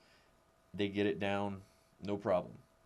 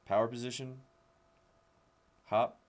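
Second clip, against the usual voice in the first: louder coaching calls of power position and hop; called cues; 3 semitones higher, 5 dB louder than usual. Shown as a demonstration. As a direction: call the cues out to the class. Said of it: "you would just say".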